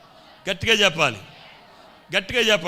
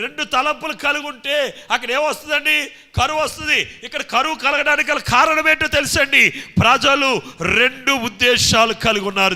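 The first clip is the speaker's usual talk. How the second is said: loud, driving revival sermon; high-energy preacher; full-force preaching; 7 semitones higher, 9 dB louder than usual. Acted. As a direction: preach it out loud, ending in shouted hallelujahs.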